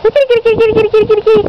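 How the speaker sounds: high singsong cat call. Real, not acted. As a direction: call the kitty sweetly. Calling the cat.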